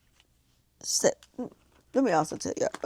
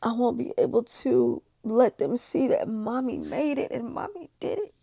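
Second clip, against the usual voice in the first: tearful; 4 semitones higher than usual. Real, not acted. Tearful plea about her children.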